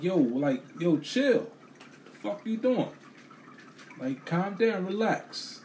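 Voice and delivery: yo, chill, pushed up high and pleading; telling her to chill. Retold or imitated. A man tells a rude lady at the register to relax, high and urgent. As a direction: voice climbing high, urgent and insistent.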